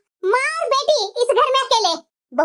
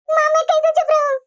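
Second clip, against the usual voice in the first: tearful complaint, slightly raised pitch; crying; 3 semitones higher than usual. Acted. Daughter telling mother she cannot stop crying, tearful. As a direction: protest to mother through tears. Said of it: "तू मत रो".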